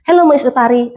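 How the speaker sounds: high, lilting hello to a silent caller; calling unresponsive guest. Shown as a demonstration. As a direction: call the guest back to the phone. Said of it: "Nggak direspon". (menyapa tamu dengan nada tinggi)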